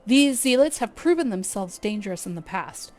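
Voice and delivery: lightly voiced stately guild leader, measured; brief the adventurers with courteous gravity; Lewin, formal commander. Streamer voicing the guild leader's mission briefing, lightly formal.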